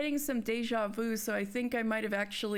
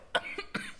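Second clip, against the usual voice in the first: sputtering cough; hacking after water went down wrong; 4 dB quieter than usual. Real, not acted. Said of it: "some water went down the wrong way".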